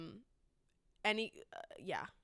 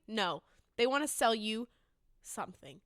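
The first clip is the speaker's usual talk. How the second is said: ordinary talk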